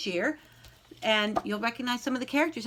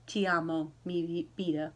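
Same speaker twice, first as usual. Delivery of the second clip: softer, hushed grandfather's words; tender whisper; 5 semitones lower, 5 dB quieter than usual. Acted. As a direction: murmur it gently, holding back a tear. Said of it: "he whispered".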